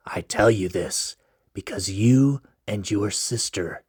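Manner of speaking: mysterious stranger. Acted. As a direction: keep it low and secretive.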